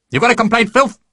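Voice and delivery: high, sneering threat; menacing sergeant. Acted. Sergeant sneering at the beaten recruit. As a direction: dare him to complain.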